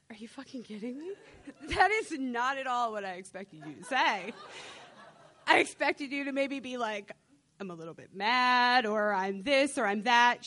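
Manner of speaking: incredulous, laughing through it; teen laughing in disbelief at mom. Retold or imitated. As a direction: react in stunned amusement. Stunned reply to mom, laughing.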